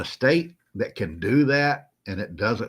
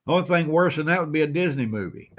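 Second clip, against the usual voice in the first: laughing; 5 semitones higher than usual. Real, not acted. Cracking up at own joke.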